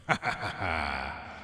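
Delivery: low evil laugh with echo; villain laugh. Shown as a demonstration. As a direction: cackle like a movie villain. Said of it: "Do an evil laugh with the echo".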